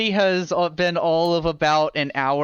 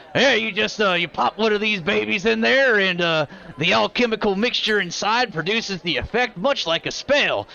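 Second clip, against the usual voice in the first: proud; 4 semitones higher than usual. Acted. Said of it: "very proudly".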